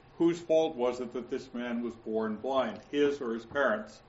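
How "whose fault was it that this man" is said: plain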